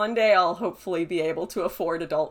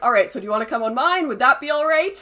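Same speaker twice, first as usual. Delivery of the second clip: rising anxious plea; 6 semitones higher, 6 dB louder, faster than usual. Retold or imitated. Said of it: "And I was like".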